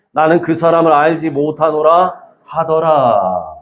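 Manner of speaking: measured, declaimed Bible reading; formal congregational reading; scripture reading. Acted. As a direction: read the verse out evenly, drawing out the final words. Reads scripture aloud.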